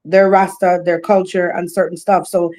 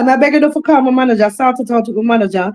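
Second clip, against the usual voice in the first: fast, insistent patter, pitched up; firmly letting know; 3 semitones higher, faster than usual. Acted. Entertainer sending a caller to her manager, firmly letting them know. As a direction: rattle off the booking rules, brooking no argument. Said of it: "I'm just letting you know that".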